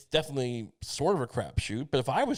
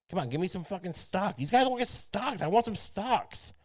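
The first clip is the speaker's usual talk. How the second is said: higher, mock-entitled whining; mock greedy whine for stock tips; 8 semitones higher than usual. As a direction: whine like a spoiled judge wanting stock. Pretend judge demanding stock perks.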